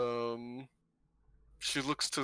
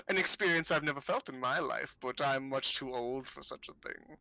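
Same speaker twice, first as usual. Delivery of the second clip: put-on amused old fortune-teller.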